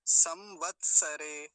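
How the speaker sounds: slow, split into syllables; loud, drawn-out teaching demonstration; model pronunciation. Shown as a demonstration. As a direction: say it piece by piece, firmly. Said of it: "ऐसा हो जाएगा".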